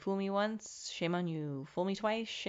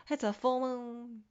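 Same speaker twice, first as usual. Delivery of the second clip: retold realisation; 5 semitones higher, slower than usual. Acting out a sudden realisation.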